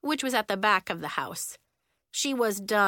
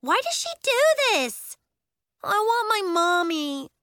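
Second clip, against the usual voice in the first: high, loud, whiny panic; high-pitched, distressed complaint; freaking out; 12 semitones higher, 6 dB louder than usual. A narrator's reading. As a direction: wail like a frightened little kid. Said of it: "kids from the other classes were freaking out".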